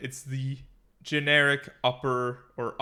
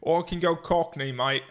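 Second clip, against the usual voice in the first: loud, higher put-on Cockney; playful Cockney accent, pitched up; 5 semitones higher, 8 dB louder than usual. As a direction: do a big broad Cockney. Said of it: "sounded like a pretty good Cockney".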